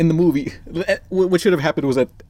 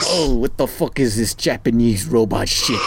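put-on grumpy old rat voice; 4 semitones lower than usual. Voicing Splinter's outrage.

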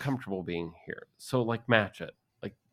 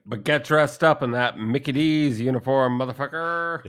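angry mock rant; 7 semitones higher, 9 dB louder than usual. Mocking boss, calling out.

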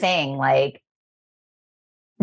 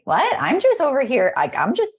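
mock innocent; 3 semitones higher than usual. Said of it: "And I'm like".

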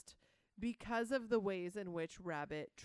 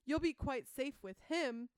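nervous Piglet; 5 semitones higher, 6 dB louder than usual. Retold or imitated. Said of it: "he says".

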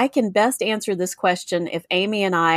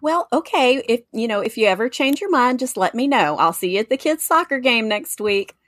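higher-pitched, acted polite sign-off; friendly brush-off; 4 semitones higher than usual. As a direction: close the role play lightly, pitch lifted. Role-played polite sign-off.

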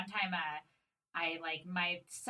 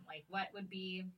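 whispered aside; 7 dB quieter than usual. Real, not acted.

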